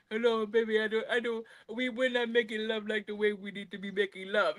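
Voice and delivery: a hint of a whiny husband asking; mock husband voice. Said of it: "that's what he sound like".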